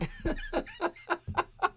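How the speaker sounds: real high-pitched burst of laughter. Real, not acted. Streamer cracking up at a viewer's joke, high laugh.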